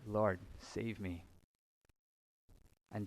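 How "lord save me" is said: slow, softer mock plea; mock cry for help. Pastor retelling Peter sinking, slow mild plea. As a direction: drag out a pleading cry without shouting. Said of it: "And so he cries out".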